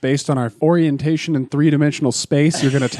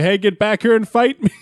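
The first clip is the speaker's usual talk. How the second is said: hey, pitched up in a hammy dare; mock challenge yell; 8 semitones higher, 3 dB louder than usual. Friend now yelling after the departing car, mock fury. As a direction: shout it after the car, higher and louder. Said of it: "I say".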